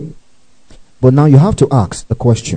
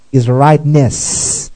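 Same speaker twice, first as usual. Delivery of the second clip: slow rightness; much slower than usual. Shown as a demonstration. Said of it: "That's what they think that means".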